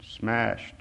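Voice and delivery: soft, slightly hushed word; understated whisper. A narrator's reading. Narrator repeats Bisou's whispered word, softly hushed. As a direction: push it out softly. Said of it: "His whisper pushed out the word".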